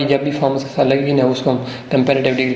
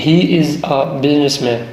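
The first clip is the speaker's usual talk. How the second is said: he is a businessman said very slowly, word by word; slow dictation; much slower than usual. Shown as a demonstration. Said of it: "اب یہ کس کی بات ہو رہی ہے؟". (آہستہ آہستہ لکھوانے کا انداز)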